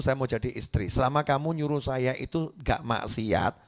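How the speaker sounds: wife gently explaining to her husband; gentle wife. Retold or imitated. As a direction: calmly reassure the husband. Patient wife answering husband.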